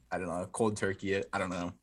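low, rough smoker's voice. Real, not acted. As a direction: talk low like a heavy smoker. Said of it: "You sound like a smoker right now".

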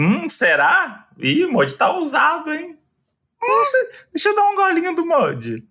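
squeaky teasing imitation of a friend; high mocking voice.

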